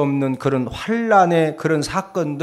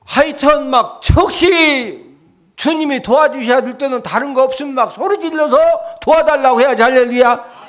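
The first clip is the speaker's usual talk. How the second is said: full-force preaching; 9 semitones higher, 6 dB louder than usual. Acted. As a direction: urge the congregation. (높고 크게 외치는 설교)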